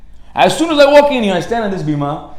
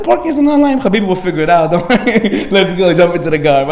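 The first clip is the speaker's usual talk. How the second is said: eager urging; 4 dB louder than usual. Retold or imitated. Rabbi convincing friend to drive, laughing and eager. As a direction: hype him into the car.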